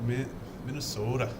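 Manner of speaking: put-on second try at "Minnesota" in a Minnesota accent. Checking how they say it, imitated Minnesota accent. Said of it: "Isn't that how they do it?".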